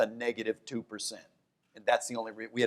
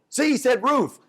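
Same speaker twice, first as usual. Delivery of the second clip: much higher, excited insistence; hammed-up proud owner; eager dog owner; 11 semitones higher, 5 dB louder than usual. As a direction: prove the dog talked, squeaky and eager. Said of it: "And he goes".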